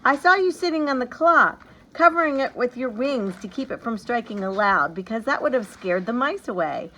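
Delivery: put-on high, loud reproachful child's outburst; a girl crying out at her godfather; cried out. A narrator's reading. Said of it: "she cried out".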